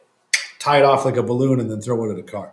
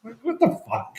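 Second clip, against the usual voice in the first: incredulous; 11 semitones higher, 6 dB quieter than usual. Retold or imitated. Retelling baffled reaction.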